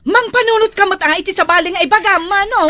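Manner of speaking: put-on loud, rushed retort to an older brother; angry retort. Sister cutting off her brother in a family quarrel, loud and quick. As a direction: snap back at him fast.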